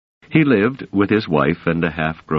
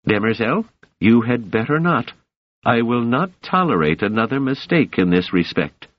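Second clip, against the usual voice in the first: higher, threatening emperor; cold rasping evil emperor; 6 semitones higher than usual. A narrator's reading. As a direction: warn him like a stern ruler. Emperor voiced in story.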